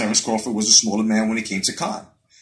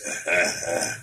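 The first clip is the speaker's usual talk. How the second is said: mock chuckle; 6 semitones lower, 5 dB quieter than usual. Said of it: "let me do the Arum voice".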